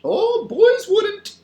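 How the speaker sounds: high, drawn-out giant voice; loud, high and slow, with a grin; grinning giant. A narrator's reading. The giant teasing Sophie about boys, grinning.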